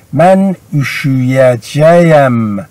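slow, deliberate model form; careful slow demonstration; slow model reading. Shown as a demonstration. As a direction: say each syllable slowly for the class. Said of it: "repeated example".

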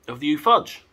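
high, bright rising announcement; drawn out delight. Shown as a demonstration. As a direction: sing out the brand name. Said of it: "There you go, that's all it is".

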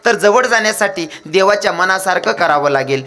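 high, ringing preacher's exhortation; exhorting saint. Acted. Saint Nathbaba instructs his disciples, high-pitched exhortation.

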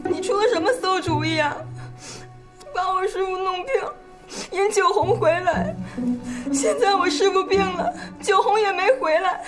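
plaintive and upset; tearful reproach. Acted. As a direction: complain through rising tears. Tearful reproach over sick master.

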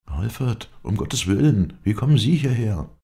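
loud, high cry of disbelief; loud startled call. A narrator's reading. Marshall recognizes the prisoner, calling out loudly. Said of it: "erscholl jetzt ein lauter Ruf".

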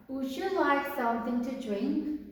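very slow, every word laid out for learners; slow, careful classroom English; slow model reading. Shown as a demonstration. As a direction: read it slowly like a teacher modelling. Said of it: "세 번째 문장".

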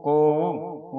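ਕੋਊ as "ko-oo"; two vowels in ਕੋਊ, o into long oo; long-vowel ending. Shown as a demonstration. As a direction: draw out the final oo of ਕੋਊ. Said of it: "ਊੜੇ ਦਲੈਂਕੜ ਊ".

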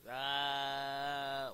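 drawn-out loud holler; sustained shout; long loud cry. Real, not acted. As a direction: hold one loud open yell. Long cry during play.

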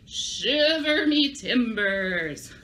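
very slow drawn-out pirate cry; pirate exclamation. Shown as a demonstration. Teacher practising the scary pirate phrase with kids, very slow. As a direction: draw it out like a spooked sailor. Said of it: "practice one more time".

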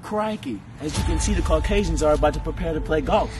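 mock wildlife narrator voice; nature documentary host. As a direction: present golfers like rare animals. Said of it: "that's the end of the National Geographic".

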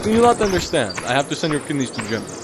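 mock Russian accent, insisting; put-on Russian, playing the organ collector. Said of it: "how to do the Russian accent".

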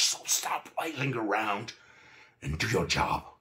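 angry yell, stretched on the key words; angry scream. A narrator's reading. Narrator screaming at a teammate over a scratch, angrily. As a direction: bellow it in exasperation. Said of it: "started to scream angrily".

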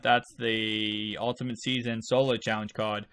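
ordinary delivery

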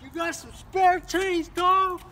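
homeless guy voice. Acted. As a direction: call out for spare change.

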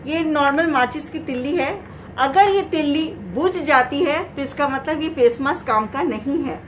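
muffled behind cloth mask; speaking with covered mouth; through a face mask. Real, not acted. Seen 0: Grey cloth mask covers mouth and nose throughout; removed by 5.4.

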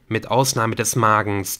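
usual speaking voice

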